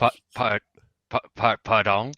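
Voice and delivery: stammered, hammed-up French pardon; hammy stage actor. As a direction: ham up a stuttering French pardon. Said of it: "Now you're really hamming it up".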